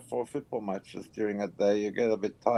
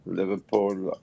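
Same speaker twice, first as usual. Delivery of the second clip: tired voice; 3 semitones lower than usual. Real, not acted. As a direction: drag the words, worn out. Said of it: "Sound tired".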